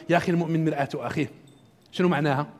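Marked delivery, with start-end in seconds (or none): 0.1-1.3 fast, softer, tossed-off cliché; offhand dismissive quote. Retold or imitated. Lecturer mimics how people toss off the proverb, fast and offhand. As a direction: rattle it off like a worn saying. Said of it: "احنا دائمًا نقولها".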